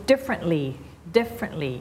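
"differently" slowly, weight on first syllable "diff"; stress on DIFF. Shown as a demonstration. Teacher modelling stress for a student, "differently" stressed on "diff". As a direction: hit "diff", let the rest of "differently" fall. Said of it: "stress ที่ diff".

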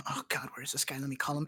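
soft, low grumble under the breath; hushed private aside; muttering to self. Pretend. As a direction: play a date quietly talking to herself. Playing the waiting date alone.

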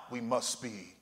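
fading to a whisper. Acted. Quiet closing line, fades to whisper.

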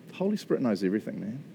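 soft, low, quick answer with a little sigh behind it; loving. Retold or imitated. Prophet answering the skeptic, lovingly understated. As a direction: imitate a gentle, knowing reply. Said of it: "looked at me in love".

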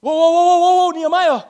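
lightly acted crowd, stopping the speaker with mild excitement; excited townspeople. Townspeople answer Nehemiah's testimony, lightly acted excitement. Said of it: "So the people began to say".

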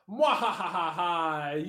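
slow hammed-up villain laugh; evil laugh. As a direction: cackle like a cartoon villain. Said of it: "Christian Shepherd's like".

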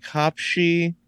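slow drawn-out hopshi like a sneeze; foreign sneeze sound. Shown as a demonstration. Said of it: "countries that say, like".

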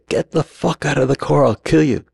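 high-pitched imitation of a threatening stranger; mock threat. Crazed man at a Wendy's threatens the driver, high mock threat. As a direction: play a ranting stranger, pitched high, without real volume.

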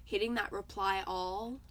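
raspy allergy-worn voice; hoarse, like a chain smoker; smoker's rasp. Real, not acted. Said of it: "I sound like a chain smoker".

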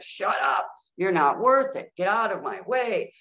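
mildly heated dismissive outburst; mock parental yelling. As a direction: imitate a parent snapping in a fight. Acting out parents' fights at home.

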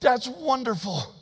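quiet, slow sarcastic wow; dry sarcasm. Retold or imitated. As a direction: say it deadpan, not impressed. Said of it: "I thought".

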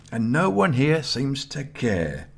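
high, slow self-pitying complaint; complaining. A narrator's reading. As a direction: draw it out, feeling hard done by. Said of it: "Nelson complained".

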